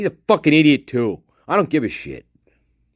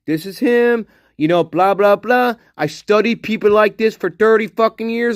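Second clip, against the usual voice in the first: higher, sneering know-it-all voice; mock the detective's smug certainty, pitched up; mocking Ken Maines; 5 semitones higher than usual. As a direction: mimic him as a smug expert. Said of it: "He, he was like".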